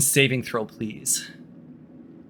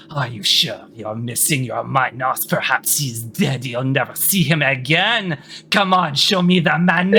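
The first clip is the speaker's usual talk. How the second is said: egging him on. Acted. Queen baits a panicking captive, egging him on. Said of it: "she will start to egg him on again".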